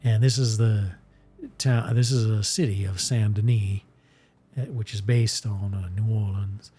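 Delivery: light Southern Mississippi voice for Ransom Bash; Mississippi accent. Acted. Streamer narrating his Southern character, in a light Mississippi accent. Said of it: "he kinda talks like this".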